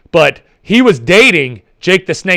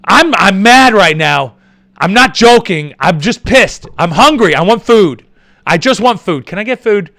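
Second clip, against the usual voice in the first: raised, insistent mock complaint; acted hangry rant; 4 semitones higher, 5 dB louder than usual. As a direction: act out being seriously pissed off and hungry. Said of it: "I'm seriously pissed off".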